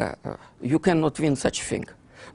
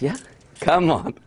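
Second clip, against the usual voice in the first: usual speaking voice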